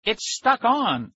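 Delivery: high, slow, drawn-out whine; panicked wail. A narrator's reading. Boy cannot slide the phone off his ear, despairing wail. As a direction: stretch the words into a wail.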